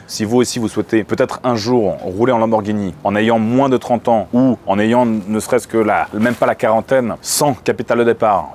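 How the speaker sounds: steady sales pitch to viewers; ad read. Acted. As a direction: sell the dream straight to camera.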